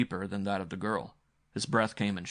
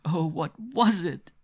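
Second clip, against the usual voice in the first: panting; 9 semitones higher, 6 dB louder, slower than usual. A narrator's reading. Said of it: "the girl was panting".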